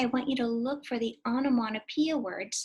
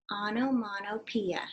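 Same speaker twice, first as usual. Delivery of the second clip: Onomatopoeia said slowly, syllable by syllable; slow model word; 2 semitones lower than usual. Shown as a demonstration. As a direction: sound out Onomatopoeia slowly for kids to copy. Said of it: "Can you say that?".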